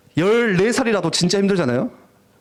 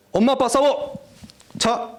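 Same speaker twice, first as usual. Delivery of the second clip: high-pitched pretend order; mock command; 5 semitones higher, slower than usual. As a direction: order it like casting a silly spell. Mock command making parents fight.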